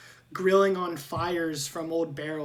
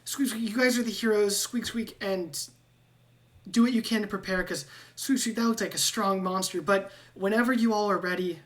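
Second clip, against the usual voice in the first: higher rat voice, urging the heroes on; a worried rat begging for help; squeaky rat-man; 3 semitones higher than usual. Acted. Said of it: "he's like".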